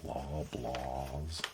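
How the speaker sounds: "Loblaws" drawn out with a rising tune; special Loblaws. Shown as a demonstration. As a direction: say "Loblaws" slowly, lifting at the end. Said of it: "I have to say it like that".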